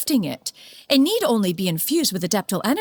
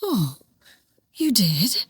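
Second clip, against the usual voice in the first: a hushed, almost unvoiced "you did?"; slower than usual. Surprised at visit plans.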